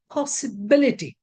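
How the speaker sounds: Possibility with the stress on BIL; stress before -ity. Shown as a demonstration. Teacher modelling an -ity word, stress on BIL in Possibility. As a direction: hit BIL in Possibility, then fall away. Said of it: "The syllable which occurs before I T Y".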